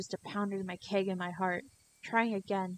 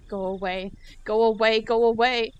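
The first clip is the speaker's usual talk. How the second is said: shouting; 3 semitones higher, 11 dB louder than usual. Acted. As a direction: yell her away with all your force. Keiichi slamming the door.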